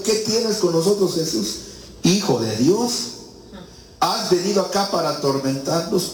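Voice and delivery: lightly voiced demons crying out in fear. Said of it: "clamaron diciendo".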